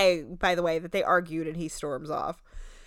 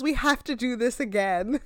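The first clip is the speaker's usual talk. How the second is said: fake cheerful; 4 semitones higher than usual. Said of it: "I was dying because she goes".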